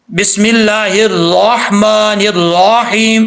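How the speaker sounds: बिस्मिल्लाहिर्रहमानिर्रहीम with the lips rounded on every ra; mock the wrong rounded ra in बिस्मिल्लाहिर्रहमानिर्रहीम; exaggerated rounded ra. Shown as a demonstration. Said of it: "क्या मतलब है इसका".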